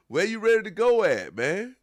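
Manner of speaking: loud mocking laugh-edged question; loud incredulous. Real, not acted. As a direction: really hammer the disbelief. Repeats louder, laughing disbelief.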